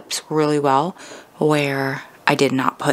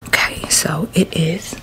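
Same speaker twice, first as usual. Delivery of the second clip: whispering; slower than usual. Real, not acted. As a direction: whisper it softly. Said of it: "I'm being quiet 'cause the kids are still sleeping".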